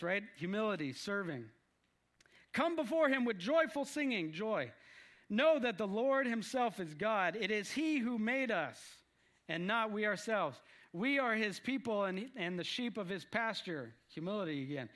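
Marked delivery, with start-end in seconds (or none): 2.5-4.3 raised, declamatory psalm reading; scripture reading. Acted. Preacher reading a joyful psalm to the group, proclaiming. 5.3-13.9 measured psalm recital; scripture reading. Acted. Preacher reading the psalm to the group, declaiming.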